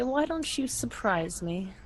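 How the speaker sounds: slow, soft and breathy; deep breathy voice. Acted. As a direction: breathe it out slowly, seductively. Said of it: "in a deep and breathy voice say".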